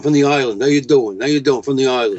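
mock Long Island local greeting; quick New Yorker patter; thick New York accent. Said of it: "thick New York accent".

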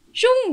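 high imitated whoosh; whoosh of thrown paper. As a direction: mimic paper flying through the air. (tiruan bunyi kertas melayang)

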